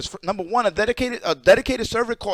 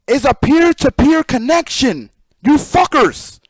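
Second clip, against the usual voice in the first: angry rant; 5 semitones higher, 6 dB louder, slower than usual. Real, not acted. Ranting at his viewers.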